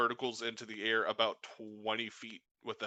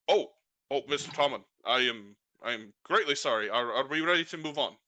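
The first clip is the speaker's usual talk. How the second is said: startled driver; 7 dB louder, faster than usual. Acted. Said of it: "be like".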